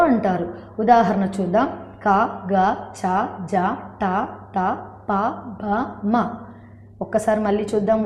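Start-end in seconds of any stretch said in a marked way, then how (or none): 2.1-6.2 క, గ, చ said with very little breath; low-breath unaspirated syllables. Shown as a demonstration. Teacher showing students unaspirated letters, low-breath syllables. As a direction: release each syllable from క to మ lightly, without aspiration. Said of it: "చాలా తక్కువ శ్వాసతో".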